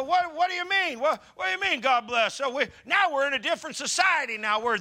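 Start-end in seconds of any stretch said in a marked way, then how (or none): 0.0-2.3 high, puzzled mock question. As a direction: play it dumb and confused. Mocking confused society.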